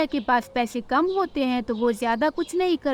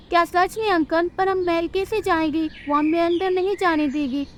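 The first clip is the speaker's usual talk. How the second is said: put-on higher, eager child voice; girl thrilled by the offer, higher; excited little girl; 5 semitones higher than usual. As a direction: ask with wide-eyed hope.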